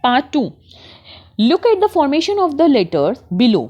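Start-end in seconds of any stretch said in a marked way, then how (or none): 1.4-3.6 put-on very slow, deliberate reading aloud for children; slow textbook reading. Teacher reads the passage to her class, very slow. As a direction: read each word out slowly for young learners.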